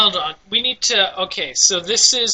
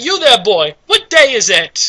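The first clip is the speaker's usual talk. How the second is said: Scrooge; 5 semitones higher, 5 dB louder than usual. Retold or imitated. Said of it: "is he like Scrooge".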